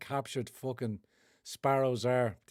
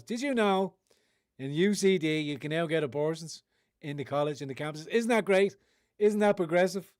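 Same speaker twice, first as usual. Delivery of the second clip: mock cheerful advert; 3 semitones higher than usual. Mocking campus abortion advert.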